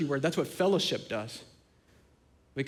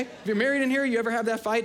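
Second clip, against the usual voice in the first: raised repeat; 5 semitones higher than usual. Shown as a demonstration. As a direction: lift it up the second time and press the crowd.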